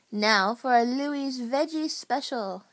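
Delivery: mild announcer's call; announcing. A narrator's reading. Pizza chef presenting his next pie, announcing. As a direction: present it to the room. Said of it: "he announced".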